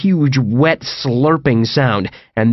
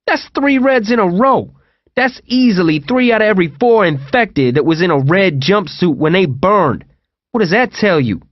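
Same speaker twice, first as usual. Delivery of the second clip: higher, raised argumentative voice; heated Owen; 6 semitones higher than usual. Acted. Owen arguing with TJ about red jumpsuits, heated and higher. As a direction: press him hard, pitch climbing.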